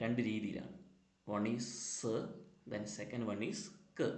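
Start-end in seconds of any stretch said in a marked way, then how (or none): 1.9-2.1 "s" as a hissed sound, not the letter name. Shown as a demonstration. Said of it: "രണ്ട് തരത്തിലാണ് pronounce ചെയ്യുന്നത്". 4.0-4.1 "k" as a short "kuh"; letter sound k. Shown as a demonstration. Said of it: "രണ്ട് തരത്തിലാണ് pronounce ചെയ്യുന്നത്".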